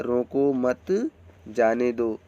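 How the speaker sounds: रोको मत drawn out and rising, then जाने दो; slow रोको मत, break, settle on जाने दो; pause after मत. Shown as a demonstration. Teacher gives the correct example, pausing after मत. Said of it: "सही स्टेप क्या है?".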